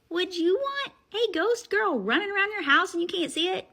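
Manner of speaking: high, loud, worked-up question; heated challenge. Real, not acted. Agitated challenge to the listeners.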